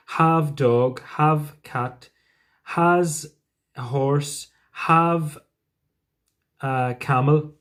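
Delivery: deliberately broken English, every verb left as plain have; mock a learner saying have dog, have cat. Shown as a demonstration. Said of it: "And I just went".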